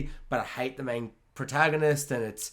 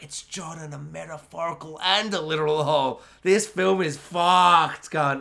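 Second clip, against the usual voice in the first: exasperated verdict; 3 semitones higher than usual. Retold or imitated. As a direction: spit out the verdict in disgust. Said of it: "I'm like".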